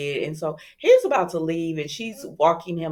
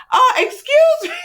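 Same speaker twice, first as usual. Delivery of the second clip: much higher and louder, outraged squeal; mock indignant; 11 dB louder than usual. Chad catching Alex and Stephanie, shrill mock outrage. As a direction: act scandalized with a high squeaky voice.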